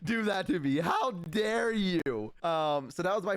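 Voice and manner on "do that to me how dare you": much higher, slow mock angry cry; hammed-up outraged mother; furious mom.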